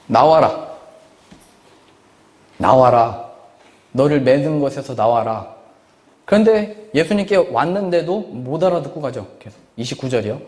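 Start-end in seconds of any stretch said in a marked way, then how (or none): 0.1-5.5 a summoning call that swells; preacher voicing Jesus' call, rising in force; Jesus calling out. Jesus calls her to come out.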